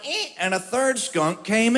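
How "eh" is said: screen door creak. Retold or imitated. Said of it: "the screen door went".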